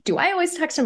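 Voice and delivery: mock spiralling into worried questions; activated worry. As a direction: imitate anxious second-guessing. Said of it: "I started to get activated".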